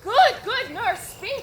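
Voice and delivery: urgent plea with a rising end; eager pleading. Acted. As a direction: press her, eager and impatient. Juliet pleading with nurse.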